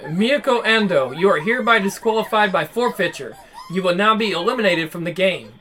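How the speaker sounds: cold machine announcer voice; flat robot announcement; robotic voice. Acted. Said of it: "The robotic voice came on again".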